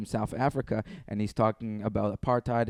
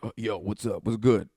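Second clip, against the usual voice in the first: casual character voice. Pretend. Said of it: "transition through several characters".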